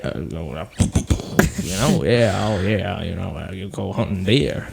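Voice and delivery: lazy mock Texan rambling; Texan American accent. To his co-host, pretending to be an American from Texas. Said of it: "a good American accent".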